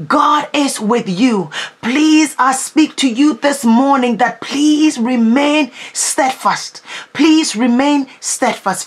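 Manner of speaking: slow, pleading and earnest; slow earnest plea. Acted. Preacher pleading with hurting listeners, slow earnest appeal. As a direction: beg them gently to hold on.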